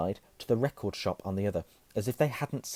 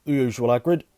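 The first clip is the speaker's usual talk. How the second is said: put-on louder, higher old barman; barman's voice; 4 semitones higher, 10 dB louder than usual. A narrator's reading. Barman greets Hagrid at the bar, calling out loudly. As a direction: call out like a busy barkeep. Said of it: "the barman reached for a glass, saying".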